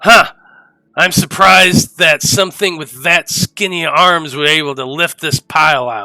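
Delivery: loud, carrying dwarf voice calling out. The dwarf calls out in Undercommon as though to another character, loud dwarf voice. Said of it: "you hear the dwarf saying in a loud voice".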